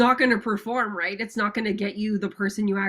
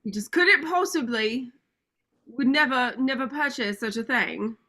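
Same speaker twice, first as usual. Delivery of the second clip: lightly put-on posh British accent; a hint of an upper-class British accent; Prince Charles British accent; 4 semitones higher than usual. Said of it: "I can't do a British accent".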